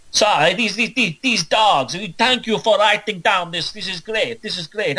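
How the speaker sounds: a hammed-up pope mocking the pagans; mock Roman pope. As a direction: lift the voice up and play a scornful pope. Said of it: "trying to do a Roman pope here".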